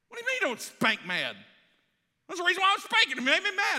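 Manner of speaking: mock outrage at don't spank mad; indignant outburst. Retold outburst at counselor.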